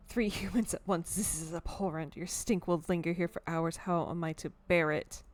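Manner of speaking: put-on disdainful, lightly done French accent; half-hearted French accent. Cat appalled by humans in its kitchen, half-hearted French accent. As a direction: complain in a loose French accent. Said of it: "I'm not trying that hard in my French accent".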